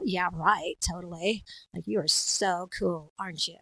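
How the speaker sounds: sarcastic, dismissive put-on voice; mean girl. Mean girl mocking someone's coolness, sarcastic drawn-out delivery. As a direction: sneer with fake admiration. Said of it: "I can be the mean girl".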